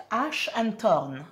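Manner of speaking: slow, self-mocking English accent on "Ash and Thorn"; a French speaker hamming up an English accent. Shown as a demonstration. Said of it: "c'est mon accent anglais".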